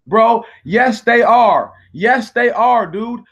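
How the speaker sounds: heated loud retort; loud insistence. Real, not acted. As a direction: hammer home yes they are. Arguing back at a troll.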